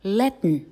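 Latin said "lat-n" with no vowel; syllabic n demo. Shown as a demonstration. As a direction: close Latin on a nasal n. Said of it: "拉丁文，Latin".

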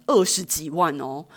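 slow, heavy stress on 二十几万哦; emphasis on the amount. Real, not acted. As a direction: lean hard on 二十几万, stretching each syllable.

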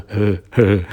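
mock laugh. Friend laughing at him.

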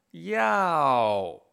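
要 sharply falling from high; fourth tone. Shown as a demonstration. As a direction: let 要 fall straight down. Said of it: "Cuarto tono, hacia abajo". (要 cayendo fuerte, cuarto tono)

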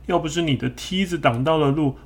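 high, blaming the other; blaming apology. Acted. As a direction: shift the blame in a high voice. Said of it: "这个河马说".

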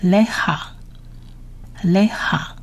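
"לך" slowly as le-KHA, long pause between repeats; word-by-word reading. Shown as a demonstration. Teacher reads the words one by one, slow word drill. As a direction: say "לך" carefully, le-kha with throaty kh. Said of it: "我们逐一来念一次他的单字".

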